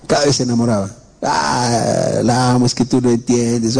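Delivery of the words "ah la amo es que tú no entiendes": a retold lovesick sob, voice cracking on the ah; mock-crying plea of a heartbroken boy; imitating crying youth. A preacher mimics a lovesick youth crying over a girl, in a mock sob.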